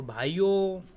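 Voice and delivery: drawn-out mock rally salutation; light impression of a political orator; Narendra Modi. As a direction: stretch it like a politician addressing a crowd. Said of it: "जब वो भाइयों बोलते हैं".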